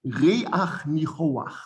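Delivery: slow Reach Nichoach, as Re-ach Nicho-ach; stolen patach demonstration. Shown as a demonstration. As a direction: sound an a before each final ch in Reach Nichoach. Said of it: "talks about the Patach Gnuva".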